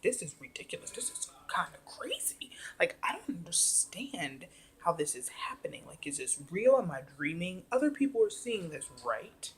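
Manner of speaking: hushed, incredulous questioning with swooping pitch; disbelief. Retold or imitated. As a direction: play up baffled amazement, lightly. Retelling own disbelief.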